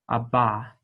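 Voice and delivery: "a ba" with a plain voiced B; demo of bet. Shown as a demonstration. Teacher to students, demonstrating the bet sound. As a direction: say "a ba" with a clear B. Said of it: "This is pronounced like a B".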